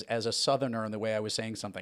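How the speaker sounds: ordinary delivery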